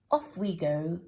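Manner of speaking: loud brisk "come along"; nanny-like order; bossy command. Acted. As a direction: hustle him off. Bossy character.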